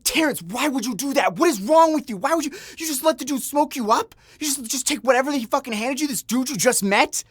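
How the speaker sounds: very high-pitched mock scolding; pissed-off ex. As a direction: mimic a girlfriend's outraged rant in a head voice. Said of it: "was so pissed".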